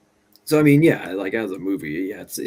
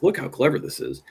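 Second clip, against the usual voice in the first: higher-pitched, self-satisfied mock aside; Rian Johnson winking; 8 semitones higher than usual. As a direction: play a filmmaker winking at the audience. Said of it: "Rian Johnson winking at the audience".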